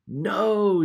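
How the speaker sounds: put-on loud, high-pitched chorus of kids; kids answering. Kids answering the teacher's question, loud and high. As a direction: call it out high and loud, like a class of children. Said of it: "said the kids".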